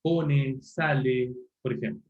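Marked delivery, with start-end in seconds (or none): 0.0-0.6 "Pone" with the extra final e; added final e. Shown as a demonstration. Teacher showing the Chilean extra vowel. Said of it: "poner una vocal E epentética al final". 0.6-1.3 "sale" with the extra final e; added final e. Shown as a demonstration. Teacher showing the Chilean extra vowel. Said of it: "poner una vocal E epentética al final".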